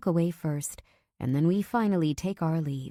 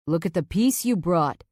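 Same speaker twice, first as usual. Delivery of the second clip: smirking; 5 dB louder than usual. Acted. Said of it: "he smirks".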